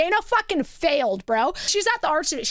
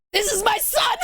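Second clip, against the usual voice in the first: higher, exclaiming imitation of a father; proud mock announcement; 4 semitones higher than usual. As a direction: show off your son in mock delight. Proud father acted against son.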